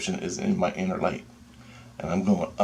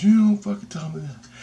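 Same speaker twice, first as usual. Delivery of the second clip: high, louder retold protest; indignant outburst; 12 semitones higher, 5 dB louder than usual. Jesus figure confronts the teller, indignant and high. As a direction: act out his sharp indignation.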